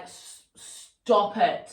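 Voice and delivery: slow, stammered start on stop it; shocked pause. Shown as a demonstration. Teacher shows a stunned, halting stop it. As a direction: catch yourself in shock. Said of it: "you need to pause".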